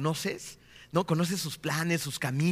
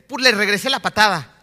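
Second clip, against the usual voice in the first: put-on loud, higher-pitched child justifying himself; Yetro; 6 semitones higher, 11 dB louder than usual. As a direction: play a little boy defending his kick to dad. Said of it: "Dice Yetro, el grande". (niño que se justifica, imitado en voz alta y aguda)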